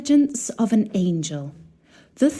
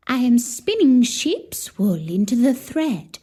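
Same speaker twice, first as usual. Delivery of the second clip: higher, lightly voiced old woman; a kindly old woman answering, a little higher; old spinning woman; 4 semitones higher than usual. Old woman answers the princess at her wheel, lightly voiced and higher.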